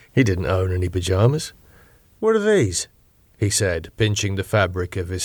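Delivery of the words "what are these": sharp high incredulous question; baffled and put out; indignant surprise. Acted. David voiced, indignant.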